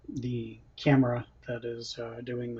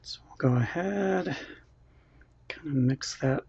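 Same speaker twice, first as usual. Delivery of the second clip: whispering; 2 semitones higher than usual. Real, not acted. Quiet aside while cooking.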